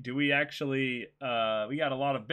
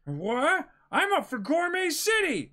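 much higher, hungry excited voice; eager young pirate; 13 semitones higher, 6 dB louder than usual. Acted. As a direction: jump at the chance for food. Reads Luffy's lines.

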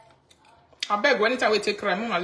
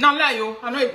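laughs the words out, higher and louder; laughing scornfully at an obvious lie; 5 semitones higher, 4 dB louder than usual. Real, not acted. Vlogger laughing off a claim made about her, laughing.

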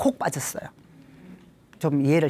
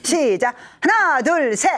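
loud, high rallying count; punchy instructor's countdown; exercise count-in; 7 semitones higher, 5 dB louder, slower than usual. Shown as a demonstration. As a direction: count the group in with big energy. Counts group into laughing exercise.

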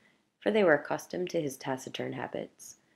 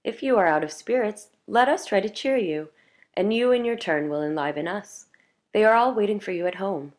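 louder, eager pleading; young man pleading with the priest, louder; 4 semitones higher, 5 dB louder than usual. A narrator's reading. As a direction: urge him to come, a little raised. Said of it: "pleaded the young man".

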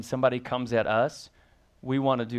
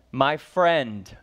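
tender; 5 dB louder than usual. Shown as a demonstration. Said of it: "notice his response".

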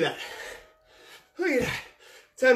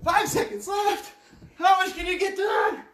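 shouted countdown; 13 semitones higher than usual. Real, not acted. Instructor shouts the final seconds to her tired class. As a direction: drive them through the last seconds.

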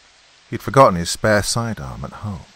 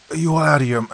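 incredulous; 8 semitones higher, 4 dB louder, much faster than usual. Acted. Bob cut off in disbelief.

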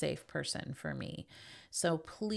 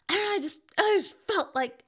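put-on high, louder small child; high toddler voice explaining herself to grandma; little girl voice; 14 semitones higher, 6 dB louder, faster than usual. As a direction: play the toddler, pitched way up. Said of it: "And she's like".

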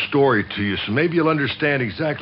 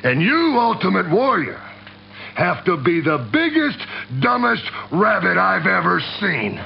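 jab at him, rising to a sneer; mocking taunt; 6 semitones higher than usual. Taunting Ultimate Warrior directly.

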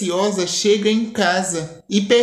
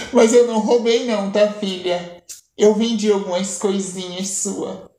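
amused. Acted.

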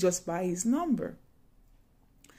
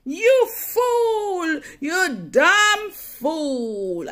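much higher and louder, scolding yell; cursing; 8 semitones higher, 8 dB louder, much slower than usual. Retold or imitated. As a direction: point and curse in her face. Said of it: "That's how she point in my face".

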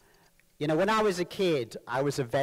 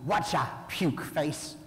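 put-on Cockney accent; slower than usual. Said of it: "if they really like you".

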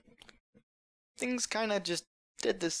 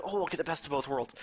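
mocking quote. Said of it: "why everyone argues we should need them".

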